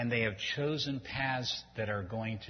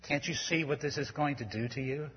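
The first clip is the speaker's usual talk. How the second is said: pleading parent; 3 semitones higher than usual. Retold or imitated. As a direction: plead gently, heart breaking. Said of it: "you start pleading with them".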